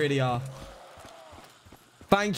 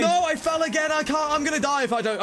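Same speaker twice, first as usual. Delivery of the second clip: panicked; 10 semitones higher, 4 dB louder than usual. Real, not acted. Falling in game.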